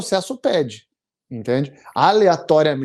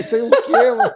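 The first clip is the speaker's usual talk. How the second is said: louder, higher, astonished question; retold disbelief; 7 semitones higher, 5 dB louder than usual. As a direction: throw out the question in shock. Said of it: "Eu falei". (espanto relembrado, mais alto e agudo)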